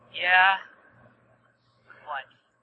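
flat, low-energy, listless put-on voice. Trying out an impersonation the others suggested; low-energy impersonation. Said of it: "That's exactly it".

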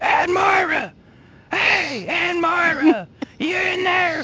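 screaming at a very high pitch. Player's character Hank banging on an upstairs door, screaming. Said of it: "start screaming".

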